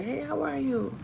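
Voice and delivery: high-pitched, drawn-in mock greeting; imitating coworker. Coworker greeting women while grabbing their hand, imitated. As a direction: lightly mimic an overfamiliar male coworker. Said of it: "That's the way he talks".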